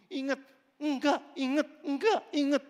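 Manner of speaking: loud, high, repeated bickering; shouting quarrel. Acted. Mocking insistent back-and-forth quarrel. (bertengkar sambil berteriak)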